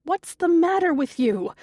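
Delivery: mother scolding son for yelling; exasperated scolding. Acted. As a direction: tell him off hard.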